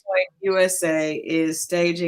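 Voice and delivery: measured, informal news read; news item read-out. Real, not acted.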